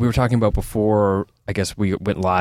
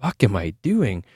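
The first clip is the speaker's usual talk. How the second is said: slow, hushed dawning realization; sudden realization. Retold or imitated. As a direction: drop into a slower, stunned inner voice. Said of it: "all of a sudden I'm like".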